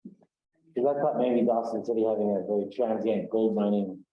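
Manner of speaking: speaking through a hand; muffled. Real, not acted. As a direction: voice muffled, hand over mouth. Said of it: "you were really muffled there".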